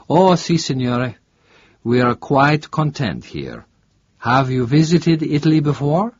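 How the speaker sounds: a lightly voiced Italian barman; chatty local in a trattoria; friendly Italian bartender. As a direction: bartender welcoming a tourist. Bartender speaks.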